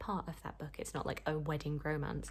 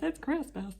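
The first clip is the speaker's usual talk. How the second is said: incredulous, pitched up and loud; as if nobody should be working; exasperated; 10 semitones higher, 4 dB louder than usual. Real, not acted. Vlogger complaining about work emails, incredulous.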